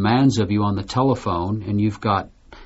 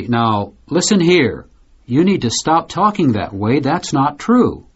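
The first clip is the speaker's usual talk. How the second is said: mock stern scolding, a bit higher; half-acted father raising his voice at his daughter; imitating loud father; 3 semitones higher than usual. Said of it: "I may speak, uh, loudly to my daughter".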